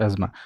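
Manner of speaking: first अस्थमा said "ez-ma", z and silent th; correct pronunciation. Shown as a demonstration. Teacher urging students to change their reading, correct pronunciation. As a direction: say अस्थमा as two syllables, "ez-ma". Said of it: "अस्थमा, not अस्थमा".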